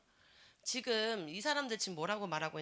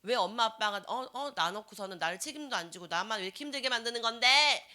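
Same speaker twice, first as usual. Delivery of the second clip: louder, accusing complaint; resentful teen; 6 dB louder than usual. Retold or imitated. Preacher acting a teen accusing parents, resentful. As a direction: throw the blame at your parents.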